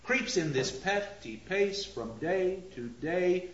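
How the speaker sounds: even beat through "petty pace from day to day"; regular beat. Shown as a demonstration. Lecturer showing the previous line's rhythm, regular beat. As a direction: keep "Creeps in this petty pace" steadily metrical. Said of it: "established a regular beat again".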